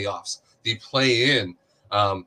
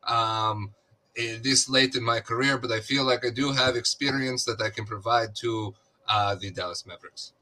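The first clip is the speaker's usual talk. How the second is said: Goran Dragic; 2 semitones higher than usual. Acted. Co-host voices a player griping about Chicago, accented impression. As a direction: imitate the player's foreign accent in an improvised locker-room complaint. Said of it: "I thought you sounded like him".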